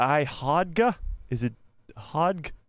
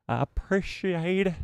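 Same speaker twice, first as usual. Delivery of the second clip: slow, higher, drawn-out thanks; sing-song, higher and drawn out; playful repeat; 5 semitones higher, slower than usual. Pretend. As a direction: stretch out a playful thank-you.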